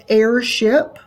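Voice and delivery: "airship" with equal weight on "air" and "ship"; two even stresses. Shown as a demonstration. Teacher demonstrates a spondee, "airship" evenly stressed. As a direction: keep both halves of "airship" up, neither dropping. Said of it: "not going down on either one".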